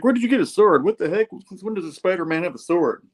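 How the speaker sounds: high, loud mock disbelief; indignant surprise. Slide just cut by a sword, acted indignant surprise.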